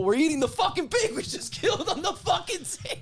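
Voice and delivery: high-pitched, laughing disbelief; incredulous laugh breaking into the words. Real, not acted. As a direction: crack up while telling it, pitch climbing. Laughing at his own grim story.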